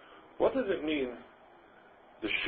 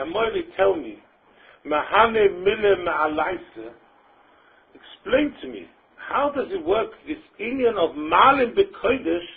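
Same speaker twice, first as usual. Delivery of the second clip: pleading question; 7 semitones higher, 5 dB louder, slower than usual. Acted. Rava's question acted out again.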